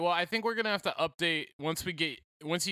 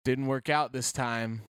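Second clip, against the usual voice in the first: ominous voicemail; 6 semitones lower than usual. Retold or imitated. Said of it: "it was ominous".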